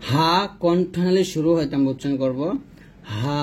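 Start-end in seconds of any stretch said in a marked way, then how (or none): 3.2-3.4 হা light and drawn out from the throat; thin ha. Shown as a demonstration. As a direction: breathe out a long, thin হা. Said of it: "পাতলা করে যেখান থেকে".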